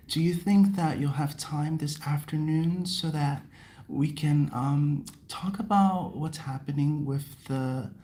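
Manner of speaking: soft, smooth imitation of a coworker's sultry voice; imitating coworker's voice. Copying the foreign staff coworker's voice to the viewers, soft and smooth. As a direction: ease into a creamy, overly smooth tone like the coworker. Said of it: "I'm copying her".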